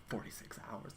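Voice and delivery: a hint of an American movie hero accent; mock American accent. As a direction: hush it out in a put-on American accent. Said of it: "put on an American accent for Martin Freeman".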